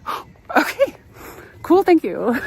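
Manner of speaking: high-pitched, awkwardly polite brush-off; mock politeness. Customer thanking a snarky store employee, high mock politeness. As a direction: act out an over-polite thanks, jumping up high.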